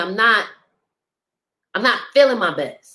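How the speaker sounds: on the verge of crying, fighting back tears. Speaking about times of not feeling one's best, holding back tears. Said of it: "I'm trying not to cry".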